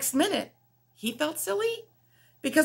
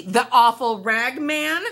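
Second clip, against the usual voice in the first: angry; 7 dB louder, slower than usual. Acted. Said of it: "said the rooster angrily".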